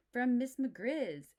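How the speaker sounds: high, loud, slow announcement; proud answer. Acted. Brother tells Papa, high and slow. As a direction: show off the treat.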